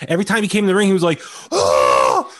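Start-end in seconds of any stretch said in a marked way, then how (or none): 1.5-2.3 low mock moan; imitated moan. Host mimicking a wrestler's ring noises, mock moaning. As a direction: groan like a wrestler overacting in the ring. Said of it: "like he was moaning really".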